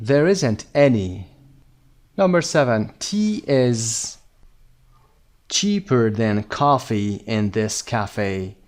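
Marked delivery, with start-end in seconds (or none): 0.1-1.3 very slow, each word separated; slow correct answer. Shown as a demonstration. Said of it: "اما پاسخ صحیح". 5.5-8.6 very slow, carefully spaced words; slow model reading. Shown as a demonstration. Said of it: "teacher reads answer slowly".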